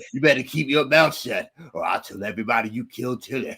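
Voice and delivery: lightly imitated threat; imitating Boyd's threat. Co-host quotes Boyd threatening Elgin, mild mock menace. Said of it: "he said it like that".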